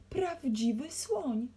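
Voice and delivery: high, loud and drawn out; astonished, stretched-out shout; roar. A narrator's reading. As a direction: bellow it slowly in amazement. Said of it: "ryknął pan Kazimierz".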